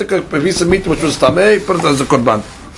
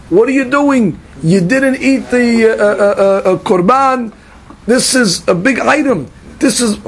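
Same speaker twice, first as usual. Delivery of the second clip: higher-pitched, mock outraged scolding; a touch of a stern teacher's rebuke; retold rebuke; 4 semitones higher than usual. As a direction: chide the sons of Aaron like Moshe, hammed-up. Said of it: "was screaming at Bnei Aharon".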